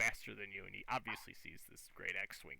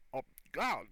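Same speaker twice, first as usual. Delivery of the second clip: garbled hobgoblin exclamation, a bit louder and higher; put-on goblin grunting speech; hobgoblin captain; 4 semitones higher, 6 dB louder than usual. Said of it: "cocks his head sideways and goes".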